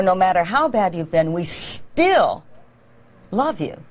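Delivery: "still" opening on a long held s, a pause after it; stress on STILL. Shown as a demonstration. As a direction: lean into the s of "still" before the rest. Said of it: "lengthen first the consonant in front".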